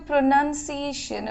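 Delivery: "প্রনাউন্সিয়েশন" with nun as second syllable; correct pronunciation. Shown as a demonstration. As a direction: say "প্রনাউন্সিয়েশন" as pro-nun-see-AY-shun. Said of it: "Not pronunciation".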